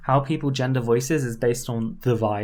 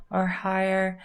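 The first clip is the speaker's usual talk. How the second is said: higher pitch demo; 6 semitones higher, slower than usual. Shown as a demonstration. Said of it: "lower or higher".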